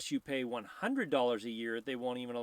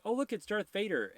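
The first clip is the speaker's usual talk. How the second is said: high, raised-voice mock shout; imitated crowd yell; 10 semitones higher, 5 dB louder than usual. Cosplayer imitating everybody spotting Darth Vader, high mock yell. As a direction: call it out high like an excited onlooker. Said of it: "when everybody starts yelling".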